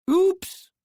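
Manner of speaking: a startled little yelp; mock surprise. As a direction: twin startled by the distant howl. Howl interrupts the twins.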